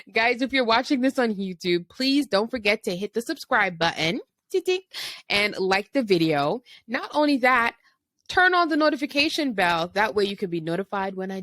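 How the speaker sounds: bright, high hyped-up YouTuber pitch. Acted. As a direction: sell the subscribe button like a YouTuber. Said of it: "let me get into my YouTuber voice".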